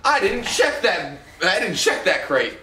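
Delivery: slow, drawn-out mock guard line; mock game guard. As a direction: voice a guard's dawning doubt, lightly hammed up. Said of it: "he's like".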